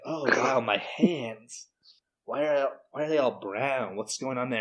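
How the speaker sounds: lightly voiced dad marvelling, a bit out of it; dazed tripping dad. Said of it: "he's like".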